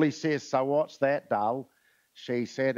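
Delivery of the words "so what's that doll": softer, understated Melbourne drawl. Acted. Husband asks his wife about the sponge cake, light Melbourne drawl. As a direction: put on a light, low-key Melbourne drawl. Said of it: "in his Melbourne drawl".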